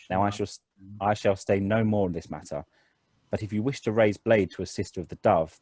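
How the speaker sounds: lightly voiced sister with a gentle Tilean accent; firm refusal in a soft Tilean accent. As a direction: turn him away formally, with a hint of Tilean accent. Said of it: "It's a very soft Chilean accent".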